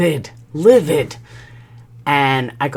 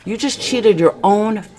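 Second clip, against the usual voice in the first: higher, aggrieved reproach; retold accusation; 4 semitones higher than usual. Wife mourning their life together to husband, reproachful. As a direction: press the hurt home in a raised pitch. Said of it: "It was bad".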